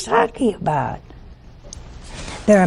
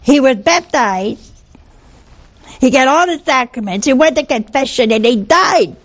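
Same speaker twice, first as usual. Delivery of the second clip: imitating a heated widow; 4 semitones higher than usual. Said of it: "boy, she's getting hot".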